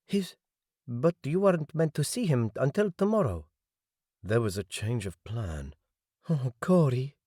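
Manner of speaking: high, startled woman's voice going tearful; a woman's shock melting into tears; shocked, tearful Eva. Acted. Eva on the phone, shocked then near tears, high.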